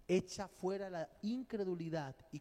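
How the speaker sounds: a preacher raising the roof; preaching shout. Real, not acted. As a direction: drive it home at full volume. Preacher at full force.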